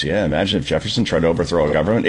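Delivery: low, quick mocking agreement. Host imitates panelists nodding along, mockingly agreeing.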